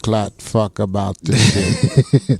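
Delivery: hammy Jamaican patois voice; bad Jamaican accent. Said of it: "That bad Jamaican accent".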